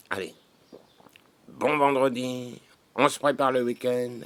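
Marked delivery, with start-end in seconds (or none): 1.5-4.2 high, loud and slow farewell; loud sign-off. Acted. Signing off to friends with a loud slow cheer. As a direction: call it out big and slow.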